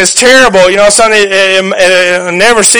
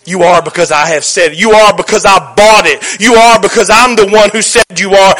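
God the Father affirming. Acted. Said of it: "you hear the voice of the Father go".

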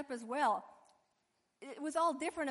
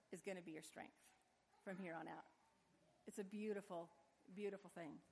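hushed tender close; 6 semitones lower, 14 dB quieter than usual. Real, not acted.

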